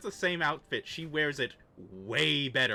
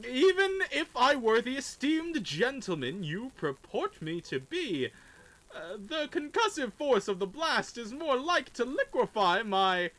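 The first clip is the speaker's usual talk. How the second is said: high pompous gentleman; 8 semitones higher, 3 dB louder than usual. Acted. Pompous NPC pleading.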